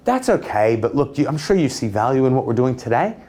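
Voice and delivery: unsure, pleading sales pitch with a hesitant lift; soft and weak. Shown as a demonstration. Salesman weakly deflecting a customer's objection, soft and unsure. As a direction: plead gently, as if needing their approval. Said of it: "See how I'm soft and weak in that position?".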